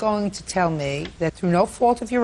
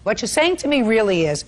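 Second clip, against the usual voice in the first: sarcastic scolding, raised and pointed; sarcastic scolding tv judge; 3 semitones higher than usual. Real, not acted. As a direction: scold him with open sarcasm. Judge mocks defendant's excuse.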